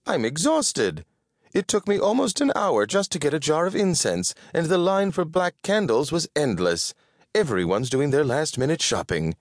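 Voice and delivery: high, quick-talking worn-out shopper; exhausted Winifred. Acted. Winifred grumbling about holiday queues, high and put-upon.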